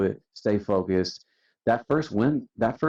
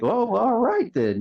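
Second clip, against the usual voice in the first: much higher, a mock won-over boss; grudgingly impressed; 4 dB louder than usual. The boss conceding to the crew, high and surprised. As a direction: play the boss giving in, pleasantly surprised.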